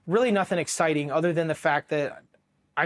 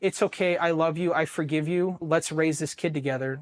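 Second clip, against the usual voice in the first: feigned loving forgiveness. Pretend. Soldier faking forgiveness to his cheating wife on the phone, sweetly. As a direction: put on a reassuring act you don't mean. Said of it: "I had to put on an Oscar award-winning show".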